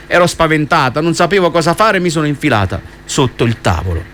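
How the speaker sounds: put-on reading a children's novel aloud on radio; steady storytelling read for the listeners; story narration. A narrator's reading. Host reads children's novel aloud. (lettura narrata di una fiaba)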